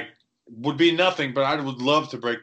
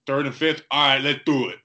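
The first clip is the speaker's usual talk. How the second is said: a light, hammed-up Boston accent on the GM's quick deal; lightly voiced Boston GM agreeing to a trade; bad Boston accent; 4 dB louder than usual. Host mimics GM in a bad Boston accent, lightly. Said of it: "that was a bad Boston accent".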